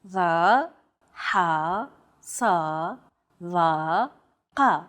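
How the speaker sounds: each syllable said with a tense, constricted throat; tense emphatic syllables, one by one; emphatic consonants. Shown as a demonstration. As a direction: push the sounds deep from the throat. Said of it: "pronounced deep within the throat".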